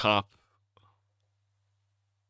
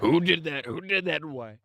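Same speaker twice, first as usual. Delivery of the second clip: high robotic Siri voice; 7 semitones higher than usual. Acted. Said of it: "robot Siri type voice".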